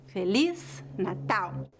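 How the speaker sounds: slow "Feliz Natal", light at first, weight on "tal"; weak start, strong ending. Shown as a demonstration. Teacher showing phrase stress, "Feliz Natal" weak then strong. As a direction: start "Feliz" weakly and land firmly on "Natal". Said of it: "O início da frase é fraco e o final é forte".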